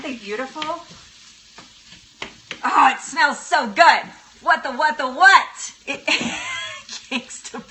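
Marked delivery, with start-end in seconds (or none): none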